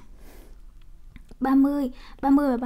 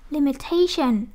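"limitation" with the weight on TA; stress on third syllable; 3 dB louder, slower than usual. Shown as a demonstration. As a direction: lean into TA in "limitation". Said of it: "nhấn T là nhấn âm ba".

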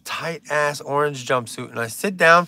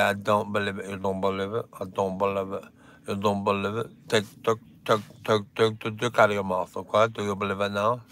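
low, softer mock Russian accent; 9 semitones lower, 8 dB quieter, faster than usual. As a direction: imitate a deadpan Russian friend, low and quiet. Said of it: "what my Russian friend used to always say".

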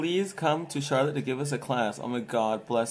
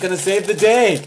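hammy announcer; 6 semitones higher, 7 dB louder than usual. Pretend. Announcing the candy like an ad.

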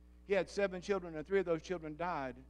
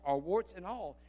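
ordinary talk

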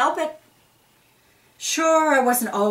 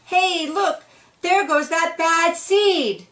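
gossiping onlooker; 9 semitones higher, slower than usual. Acted. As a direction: call out like a nosy neighbour. Other seeds point him out.

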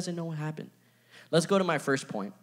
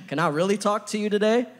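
higher, louder call to the crowd; rallying crowd question; 6 semitones higher, 4 dB louder than usual. Real, not acted. Preacher calling out to the congregation, higher and louder. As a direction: rouse them with the question. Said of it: "You know what we're really good at?".

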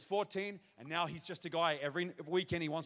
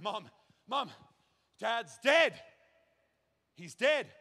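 panicked call; 4 semitones higher, 3 dB louder, slower than usual. Retold or imitated. Boy telling mum dad died.

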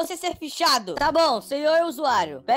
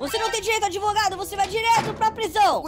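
stern cop; 5 semitones higher than usual. Acted. Cop refuses lawyer.

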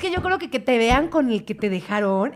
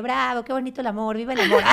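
mock cheering; 2 semitones higher than usual. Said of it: "y yo".

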